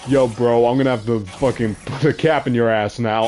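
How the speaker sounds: gym bro. Pretend. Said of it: "Like a gym bro?".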